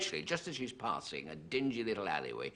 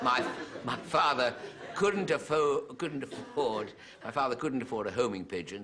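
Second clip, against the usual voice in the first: laughing; 4 semitones higher than usual. Real, not acted. Laughing through the setup.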